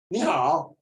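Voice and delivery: standard mainland Mandarin greeting; mainland Chinese accent. Shown as a demonstration. Teacher showing how Chinese speakers differ, mainland accent. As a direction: say hello with a China Mandarin accent. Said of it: "中国人讲华文不一样".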